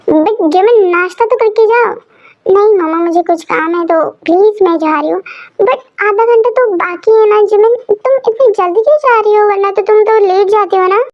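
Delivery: a mom nagging her daughter to eat; fussing mother. Acted. Mother urging daughter to eat breakfast, fussing.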